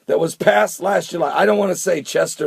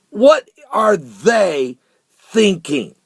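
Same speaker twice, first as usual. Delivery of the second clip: what are they thinking, very slow; slow outraged question; 4 semitones higher, 4 dB louder, much slower than usual. Real, not acted. Exasperated vlogger asking viewers about the school policy, slow outrage. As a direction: drag out each word in disbelief.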